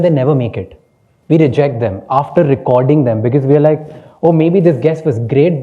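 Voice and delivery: ordinary delivery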